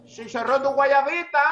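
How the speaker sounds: drawn-out hawker's call; vendor's street cry. Retold or imitated. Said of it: "empieza a gritar". (pregón de vendedor callejero, lento)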